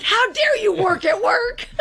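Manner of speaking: high, laughing mock-indignant cry; laughing, mock-scandalized shout at the husband; mock outrage. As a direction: fake outrage through laughter. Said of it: "And I was like".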